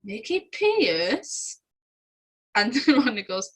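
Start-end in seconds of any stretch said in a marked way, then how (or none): 0.0-1.6 drawn-out questioning name with a rising end; imitated Del. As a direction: stretch the name slowly into a question. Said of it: "the Del goes".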